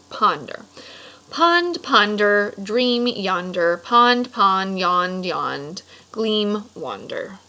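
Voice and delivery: slow dreamy poem read. Acted. Teacher reading the poem to the class, slow and dreamy. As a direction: linger on each word like a daydream.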